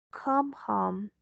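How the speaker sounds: normal talking voice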